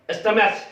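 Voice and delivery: स्टमैच with a CH ending, STUM-aitch; the common mistake, स्टमैच with CH; wrong pronunciation stumatch. Shown as a demonstration. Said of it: "न स्टमैच है". (गलत उच्चारण स्टमैच, आख़िर में च)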